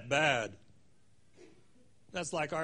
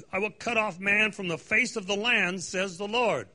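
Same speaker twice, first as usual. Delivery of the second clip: prophetic proclamation; 2 semitones higher than usual. Acted. Preacher reading Zephaniah's oracle aloud, declaiming.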